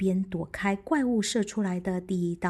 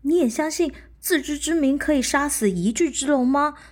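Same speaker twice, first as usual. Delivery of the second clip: squirrel voice; 6 semitones higher, 8 dB louder than usual. Acted. Squirrel asks.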